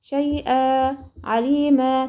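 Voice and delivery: شيئا and عليما ending on a held "aa"; tanween stopped as alif. Shown as a demonstration. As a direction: stop on شيئا، عليما with long "aa" instead of "an". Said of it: "في حالة الوقف".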